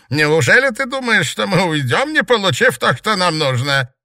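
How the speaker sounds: loud, high gloating taunts; sneering panto villain. A narrator's reading. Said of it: "Бест злорадно расхохотался".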